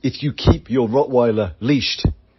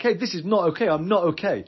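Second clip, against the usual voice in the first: warrior's refusal; 5 semitones higher, 4 dB quieter than usual. Pretend. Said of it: "your warrior is like".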